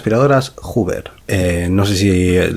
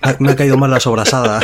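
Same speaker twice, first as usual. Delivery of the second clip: laughing Napoleon; 5 semitones higher than usual. Pretend.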